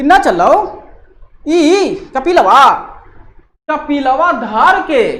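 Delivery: loud, slow mocking taunt; hammed-up teasing; teasing friend. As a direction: rib a lying friend out loud. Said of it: "वो बोले थे".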